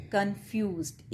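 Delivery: "कन्फ्यूज्ड" in two parts, कन then फ्यूज्ड; broken mid-word. Shown as a demonstration. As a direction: show the syllable break inside "कन्फ्यूज्ड". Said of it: "बोलते हुए हमें इसे तोड़ना पड़ रहा है". ("कन्फ्यूज्ड" बीच में तोड़कर)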